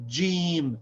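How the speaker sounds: Jim said clearly; letter name Jim. Shown as a demonstration. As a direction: say Jim plainly. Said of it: "The name is".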